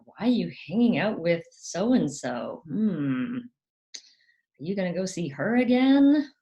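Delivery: mildly judging parent, rising at the end; questioning. Acted. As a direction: imitate probing disapproval of a friend. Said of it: "really questioning".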